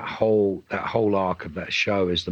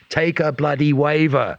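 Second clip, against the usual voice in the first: exasperated; 8 semitones higher, 5 dB louder, slower than usual. Retold or imitated. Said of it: "It's like".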